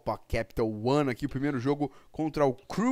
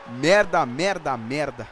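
cursing under breath; 6 dB louder, slower than usual. Real, not acted. Conceded goal, cursing.

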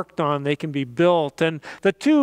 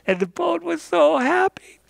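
happy storytelling lift; 9 semitones higher than usual. A narrator's reading.

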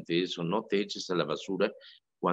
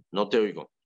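mild call out; 4 dB louder than usual. Retold or imitated. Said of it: "estoy proyectando la voz".

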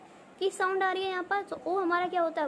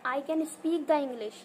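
slow, word by word, I can speak the English; wrong example; much slower than usual. Shown as a demonstration. Teacher shows students the incorrect sentence slowly. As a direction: spell out the wrong version slowly. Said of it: "ये sentence correct नहीं होता".

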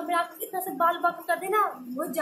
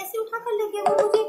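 louder, higher, scoffing at the claim; indignant mock retort; 5 semitones higher, 5 dB louder than usual. Real, not acted. Bride mocks her family's kidnapping story, loud and scoffing. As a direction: throw their accusation back, exaggerated and loud.

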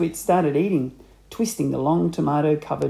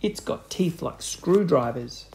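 put-on slow spooky old man. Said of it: "Mister Twit said".

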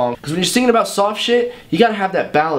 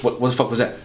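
ordinary talk

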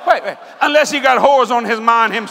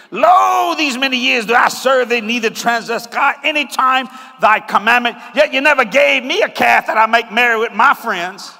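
churchy voice; 2 semitones lower than usual. Retold or imitated. Preacher voicing the churchy elder brother griping to his father, mild mock pious. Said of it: "Don't that sound churchy?".

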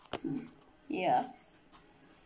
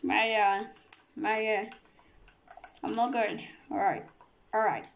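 Kermit the Frog voice. Acted. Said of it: "You are not the Kermit the Frog".

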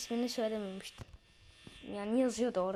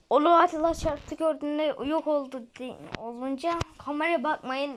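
loud, eager advice; loud excited tips to the viewers; 3 semitones higher, 6 dB louder than usual. Real, not acted. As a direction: pump up the viewers.

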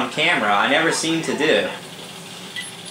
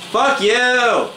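sharp, higher and louder curse; angry yell; 10 semitones higher, 4 dB louder than usual. Real, not acted. Gamer yelling at his killer, real angry shout. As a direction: yell it at the guy who just killed you.

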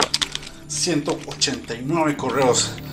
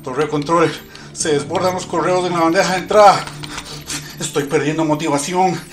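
urgent pilot radio; 4 semitones higher, 4 dB louder than usual. Acted. Pilot radio, overflowing inbox.

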